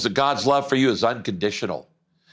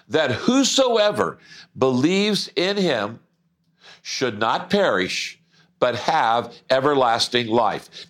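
scripture reading. Acted.

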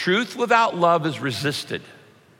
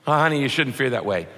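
mock husband; faster than usual. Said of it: "That's very helpful, thank you".

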